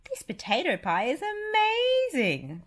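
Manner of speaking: high, whispery duck voice; Donald Duck. Acted. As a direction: exclaim like a delighted duck. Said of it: "Donald Duck exclaimed".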